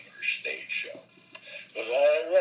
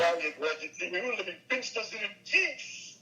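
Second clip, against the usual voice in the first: Phil Silvers; 4 semitones higher, 4 dB quieter than usual. Acted. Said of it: "Phil Silvers might say".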